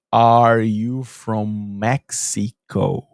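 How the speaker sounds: imitating her drawn-out, low-pitched question; slow questioning. Neighbour skipping the greeting to ask a foreigner, very slowly. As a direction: drag every word out as if the listener barely knows English. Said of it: "ela virou pra mim e falou".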